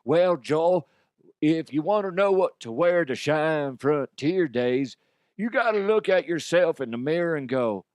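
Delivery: a lightly voiced twangy cowboy. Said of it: "Get ready to do a cowboy voice".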